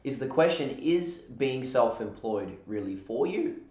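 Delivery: speaking with a husky voice; a husky, slightly hoarse voice today. Real, not acted. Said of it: "my husky voice today".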